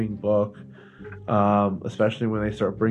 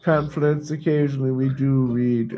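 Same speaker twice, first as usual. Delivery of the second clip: raised, mock-refined club voice; posh reading club snob; 4 semitones higher than usual. Host mocking a snooty book club member, higher and hammed-up. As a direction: play a pompous book snob bragging.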